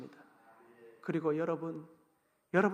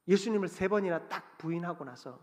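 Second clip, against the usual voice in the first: normal talking voice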